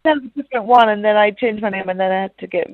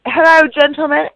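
wrestling promo; 5 semitones higher, 5 dB louder than usual. Pretend. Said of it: "I'll do the whole thing again".

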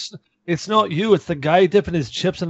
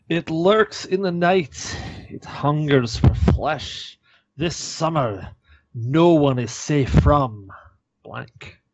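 horror trailer voice; slower than usual. Acted. Reading a horror movie trailer card.

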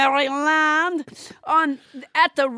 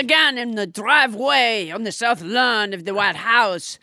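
put-on French accent. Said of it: "A little bit of French Trump".

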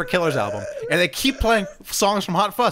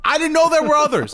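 laughing, higher pitched; laughing disbelief; 9 semitones higher, 5 dB louder than usual. Real, not acted.

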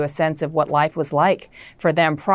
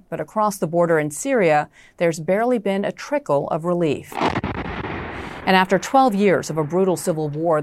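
news read. Acted. Anchor introducing the Syria earthquake story to viewers, formal news read. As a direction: read the segment intro like a prime-time anchor.

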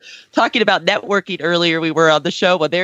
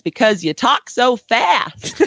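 imitating a Southern Kentucky drawl, slow; a light mock Kentucky accent, slowed way down; 3 semitones higher, slower than usual. Guest imitating her host, a touch of slow Southern Kentucky accent. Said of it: "slow Southern Kentucky accent".

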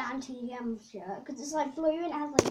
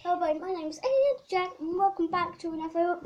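vlog intro voice; 4 semitones higher, 4 dB louder than usual. Shown as a demonstration. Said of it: "Please, I am".

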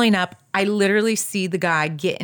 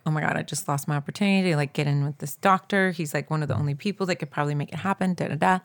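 quick, softer mock-despairing mumble; retold despair; 4 semitones lower, 5 dB quieter, faster than usual. Missing the doctor, quietly and quickly mock-lamenting. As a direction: rattle off your lost chance, deflated. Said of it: "So, so sad, so depressed".

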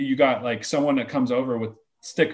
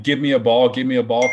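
put-on kids yelling; 4 dB louder than usual. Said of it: "then they're yelling".

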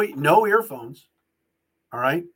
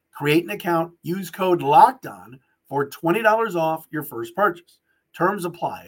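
ad read. Acted. Host reads sponsor ad.

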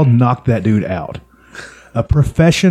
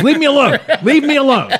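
whiny voice. Retold or imitated.

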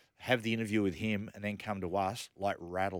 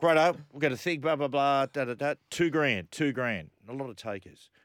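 auctioneer; 4 semitones higher, 5 dB louder than usual. Retold or imitated. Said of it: "But he was like".

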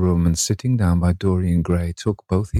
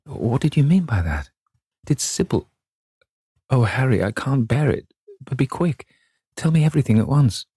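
higher-pitched, halting, horrified questions; distressed pleading in a raised pitch; stammering, stifled; 5 semitones higher than usual. A narrator's reading. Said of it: "he stammered in a stifled voice".

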